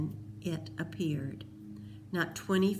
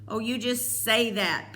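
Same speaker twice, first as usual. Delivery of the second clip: a touch higher, tearful dismissal; sobbing; 4 semitones higher, 4 dB louder than usual. A narrator's reading. Peter sobbing at Cole, tearful and doubting. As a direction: brush it off through tears. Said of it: "Peter sobbed".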